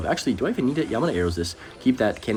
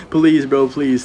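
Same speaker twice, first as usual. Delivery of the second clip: pleading; 5 semitones higher, 8 dB louder, much slower than usual. Real, not acted. Begging for death damage.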